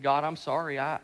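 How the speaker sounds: low, soft apology to God; quietly repent, voice dropped; hushed retold confession; repentant prayer. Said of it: "I just started to repent".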